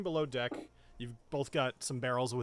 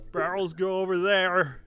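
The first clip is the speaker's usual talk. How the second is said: a hint of a lumbering brute, a bit louder; slow-witted cook; 5 semitones higher, 7 dB louder than usual. Cook directs the players to the corner, lightly dopey voice. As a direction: point and say it simply like a big lug. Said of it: "I love him so much more with his voice now".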